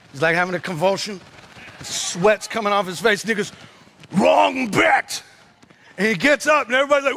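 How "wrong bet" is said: high defiant shout; defiant comeback. Retold or imitated. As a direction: shout it back as the comeback line. Acting out the fighter's comeback.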